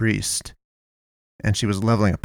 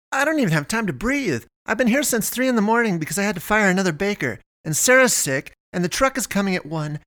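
much higher, fast rambling complaint; harried Melinda; 10 semitones higher than usual. Acted. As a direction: pour it all out in one breath, frazzled. Melinda rattles off her day.

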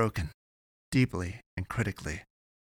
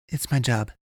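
louder, stress on my; insisting; 4 semitones higher, 4 dB louder than usual. Acted. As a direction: press the point that it's only her job. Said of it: "she insisted".

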